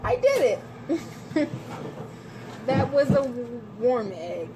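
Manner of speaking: proud shout of success; excited. Real, not acted. Triumphant cracking an egg.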